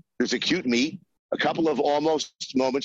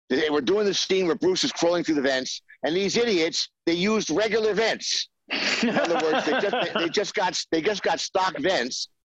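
higher-pitched mock exasperation; exasperated retelling; 6 semitones higher than usual. Producer complaining to writer about idiots on the crew, exasperated. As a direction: complain in disbelief at others' blunder.

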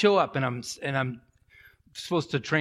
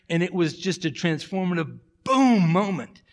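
voice cracking with tears; 4 semitones higher, 5 dB louder than usual. Real, not acted. Pastor moved recounting revival.

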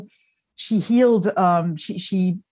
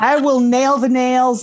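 laughing, slow; 6 semitones higher, 5 dB louder, slower than usual. Retold or imitated. Retold daughter's quote, laughing.

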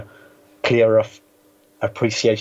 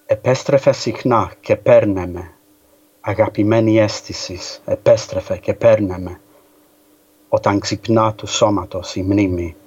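poetry reading. Shown as a demonstration. Reading Cavafy in Greek to the hosts, measured and heartfelt. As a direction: read the poem aloud with feeling. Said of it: "Would you like to read it to us in the Greek".

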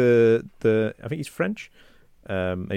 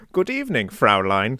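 mock German officer; 3 dB louder than usual. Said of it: "he does go".

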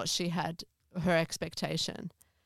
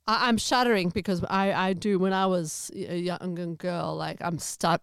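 halting, stumbling over the words; real stammer while upset. Real, not acted. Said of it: "stammering now because it's so upsetting".

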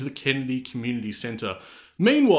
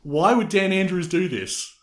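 mock indignant Jeff; 4 semitones higher than usual. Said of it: "And then he said".

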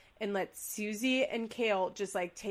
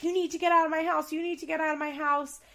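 higher, louder, fast mock yell; mock scream; 6 semitones higher, 4 dB louder, faster than usual. Retelling the son yelling at his ex. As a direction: retell him yelling her out. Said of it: "he's screaming at her".

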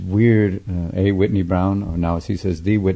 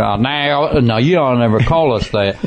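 mock Aussie accent; 3 semitones higher than usual. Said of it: "they go".

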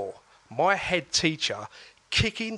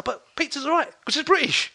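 laughing; 12 semitones higher, 4 dB louder than usual. Real, not acted. Laughing while retelling his coworker's pizza claim. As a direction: pitch climbing high into a laugh.

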